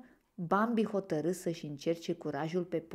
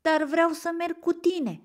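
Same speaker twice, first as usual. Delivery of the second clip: put-on high, louder childlike plea; pleading; 11 semitones higher, 6 dB louder than usual. A narrator's reading. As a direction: beg to come along, voice lifted high. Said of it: "pe un ton rugător". (rugător, cu glas înalt)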